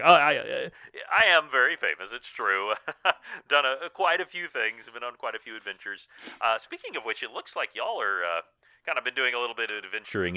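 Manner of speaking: a hint of a chuffed old-legend wizard; lightly played, chatty celebrity wizard; lightly voiced famous wizard. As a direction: modestly own up to fame, then chat on.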